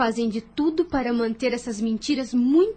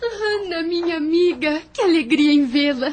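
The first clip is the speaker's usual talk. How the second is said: saudação alegre, mais aguda no nome; alegria; 4 semitones higher, 4 dB louder than usual. Acted. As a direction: recebe a amiga com alegria transbordante. Reencontra a amiga querida. (Lúcia recebe a amiga Ana com alegria)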